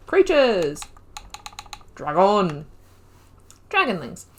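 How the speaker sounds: loud, eager announcement of each find; excited callout. Real, not acted. Gamer reading the codex menu to viewers, excited loud callout. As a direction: call out the new entries with delight.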